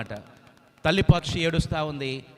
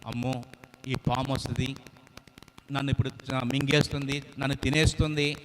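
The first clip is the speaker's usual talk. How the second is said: chick afraid; 2 semitones lower than usual. Acted. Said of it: "అని భయపడతా ఉంది".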